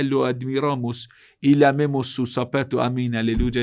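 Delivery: hammed-up sermon, scornful and loud; mocking Wahhabi preacher. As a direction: parody a fawning cleric praising the king. Mocking imitation of Wahhabi mosque.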